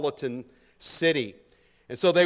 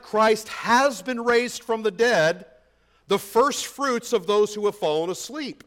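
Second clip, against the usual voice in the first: slow, weighty reading of "Christ has been raised from the dead"; slow scripture reading; 4 semitones higher than usual. Shown as a demonstration. Pastor slowly reads verse twenty aloud, weighty. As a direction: let each word land slowly. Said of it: "he says".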